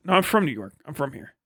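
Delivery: lightly put-on New York accent insisting "I'm from here"; a half-hearted New York accent to fool a street seller; mock New York accent. Shown as a demonstration. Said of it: "Like, in this voice".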